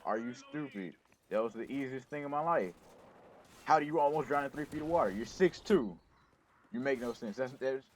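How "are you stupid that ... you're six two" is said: mocking friends. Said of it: "They're like".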